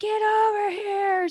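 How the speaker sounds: play-acted top-of-the-lungs shriek, very high-pitched. Speaker retells yelling at rambunctious dogs, reenacting screaming at the top of their lungs. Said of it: "screaming at the top of my lungs".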